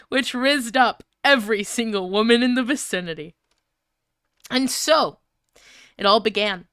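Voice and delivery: lightly dramatic fan fiction reading; story reading. Acted. Reading a ridiculous fic to chat, lightly dramatic narration. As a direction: read it like a serious novel.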